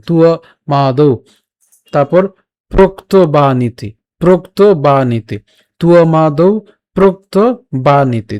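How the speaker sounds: তুও মা দৌ in separated syllables; measured model recitation. Shown as a demonstration. Teacher models for listeners to copy, syllable-by-syllable recitation. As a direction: draw out each part of প্রোক্ত বা নীতি. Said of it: "আমি বলছি তা শ্রবণ করে".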